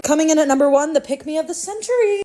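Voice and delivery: loud countdown host voice; hammed-up countdown announcer; mock announcer.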